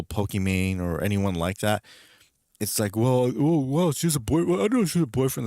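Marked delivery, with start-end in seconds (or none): 3.0-5.5 higher-pitched, flustered fan reaction; mock shocked fan. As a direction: imitate a startled, rattled follower. Acting out followers' shocked reaction.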